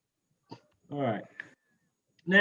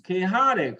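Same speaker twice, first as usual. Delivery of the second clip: Chaotic with the weight on "ot"; chaOTic, clearly stressed; 3 semitones higher than usual. Shown as a demonstration. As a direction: lean on the syllable before "ic" in Chaotic. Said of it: "So the same for all of these".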